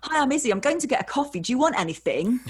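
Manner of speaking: nervous chirpy. Retold or imitated. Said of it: "I was like".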